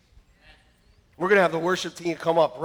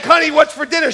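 husband asking; 10 semitones higher, 11 dB louder than usual. Retold or imitated. Husband asks wife about dinner.

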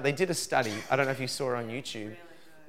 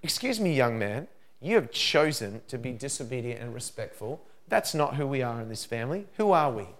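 firm parental correction. Retold or imitated. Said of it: "then I'll say to him".

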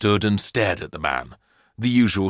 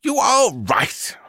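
breathy, slow whispered aside; hushed confirming whisper; 12 semitones higher, slower than usual. A narrator's reading. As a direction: whisper it as if sharing a secret. Professor confirms it is tin.

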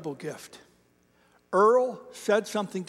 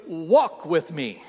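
slow, deliberate order disguised as invitation; firm command; much slower than usual. Retold or imitated. Church elder steering the young pastor down the hall, firm command. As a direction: stretch it out, leaving no room for refusal. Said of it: "it wasn't a request".

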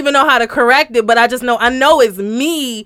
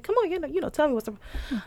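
softer, coaxing parent; calm parent; 4 semitones higher, 12 dB quieter than usual. Retold or imitated. Mother starting off calm with her son, coaxing. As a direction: gently prod a child for an answer. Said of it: "I do come to him calm".

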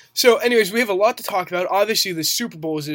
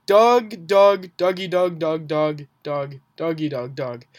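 calling out; slower than usual. Pretend. Calling Doug, fading out.

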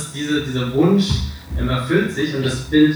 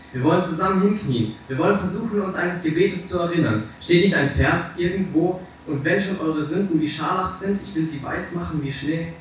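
high, imploring voice; acted, pitched-up entreaty to a friend; earnest pleading; 6 semitones higher than usual. A narrator's reading. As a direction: urge him to pray with you. Painter begs Dorian to kneel and pray.

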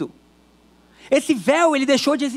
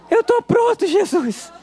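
laughing; 6 semitones higher, slower than usual. Pretend. Joking reply to Jesus, laughing.

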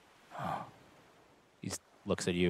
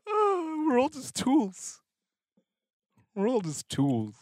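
manic laugh; 13 semitones higher, slower than usual. Acted. Salt's manic laugh after outburst.

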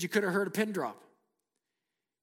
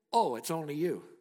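monotone voice. Retold or imitated. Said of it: "a monotone voice saying".

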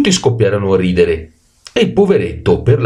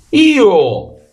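donkey shout; 12 semitones higher than usual. A narrator's reading. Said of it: "gridò subito l'asino". (grido acuto d'asino)

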